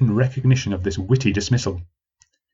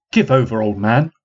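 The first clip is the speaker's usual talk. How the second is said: unimpressed retort. Acted. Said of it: "retorted a young woman, unimpressed".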